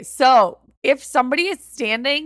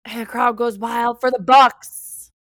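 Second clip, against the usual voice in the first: mock announcer cheer; 5 dB louder, slower than usual. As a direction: hype it up like a stadium announcer.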